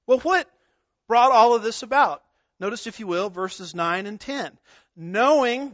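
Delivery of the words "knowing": KNOWING lifted and pressed; stressed word. Shown as a demonstration. Preacher pointing his congregation to a key word, with emphasis. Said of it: "notice that word".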